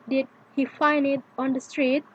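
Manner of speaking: "Did he find it on the street" rising at "street"; rising intonation. Shown as a demonstration. Teacher showing a yes-no question, "street" rising. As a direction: ask it, lifting "street" at the end. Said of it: "often have a rising end".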